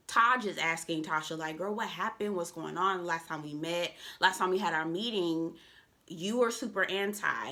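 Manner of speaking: tongue tripping on a retainer; speaking with a retainer in; wearing a retainer. Real, not acted. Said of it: "I have my retainer in".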